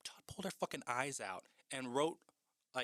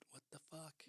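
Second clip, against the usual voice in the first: shocked whisper, no voice at all; whispered disbelief; 5 semitones higher, 14 dB quieter than usual. Retold or imitated. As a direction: breathe it out in disbelief. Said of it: "Which I'm like".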